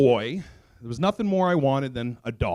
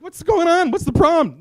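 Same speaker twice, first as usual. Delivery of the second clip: high-pitched exasperated questioning; 13 semitones higher, 4 dB louder than usual. Retold or imitated. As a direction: reenact pleading with a barking dog. Exasperated owner yelling at barking dog.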